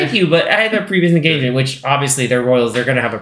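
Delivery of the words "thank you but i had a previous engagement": polite decline. Retold or imitated. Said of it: "like, politely".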